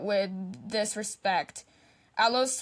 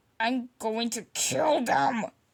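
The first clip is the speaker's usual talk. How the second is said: low growl muttered under breath; 2 semitones higher than usual. Wounded, after his enemies ruined his chance, a character growled under his breath. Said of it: "he growled under his breath".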